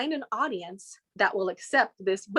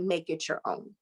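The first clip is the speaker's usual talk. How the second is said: whispered advice; 5 semitones lower, 6 dB quieter than usual. Retold or imitated. Mom's quiet advice.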